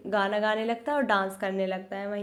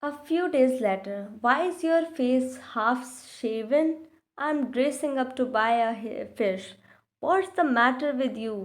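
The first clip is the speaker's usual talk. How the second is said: put-on very slow, careful English read-aloud for children; slow storybook reading; much slower than usual. A narrator's reading. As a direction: read each word out slowly like a class reader.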